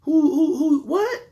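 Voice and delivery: high, loud, laughing double-take; mock shock, cracking up; hammed-up high who-what with a laugh; laughing disbelief.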